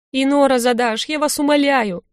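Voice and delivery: sobbing plea to the shaman; tearful pleading. A narrator's reading. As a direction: beg him, on the edge of tears. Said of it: "зарыдала девушка".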